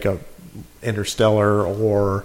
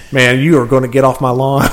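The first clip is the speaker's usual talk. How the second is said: put-on grumpy old man. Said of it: "go all cantankerous on you".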